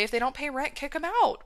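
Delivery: playful quip, pitch jumping up at the end; joking. Retold or imitated. Coach joking with clients about their tears, playfully. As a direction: toss it off as a joke, rising high. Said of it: "I always make a joke".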